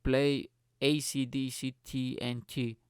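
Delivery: slow, spaced-out command to a device. Retold or imitated. Friend ordering music from smart speaker, slow command. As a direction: say each letter separately, slowly. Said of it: "And he was like".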